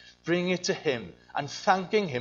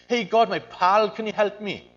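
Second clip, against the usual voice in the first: casual buddy tone; 3 semitones higher, 3 dB louder than usual. Retold or imitated. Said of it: "when we bring things to him".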